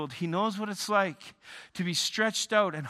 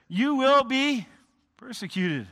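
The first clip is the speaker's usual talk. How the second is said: loud, high build-up; preaching emphasis; 6 semitones higher, 6 dB louder than usual. Acted. Preacher warning believers, loud build-up. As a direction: drive toward the key word.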